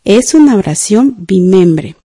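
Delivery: measured, slow dictation for writing. Shown as a demonstration. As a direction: dictate it slowly, leaving room to write.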